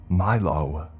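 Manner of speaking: loud call of the name; alarmed cry. Acted. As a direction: shout to stop him. Crying out as Milo harms himself.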